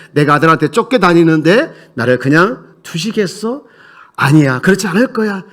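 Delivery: voicing David. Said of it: "하면서 그런 마음을 담은 거예요".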